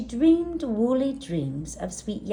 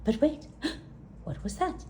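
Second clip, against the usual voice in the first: frightened; 6 semitones higher, 4 dB quieter, faster than usual. A narrator's reading. Lost in dark forest.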